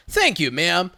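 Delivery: calm and friendly. Retold or imitated. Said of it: "in as calm and friendly of a manner".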